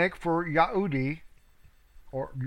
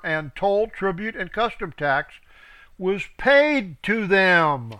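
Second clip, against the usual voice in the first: scripture reading; 3 dB louder than usual. Acted. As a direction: read it out like a preacher. Reads scripture aloud.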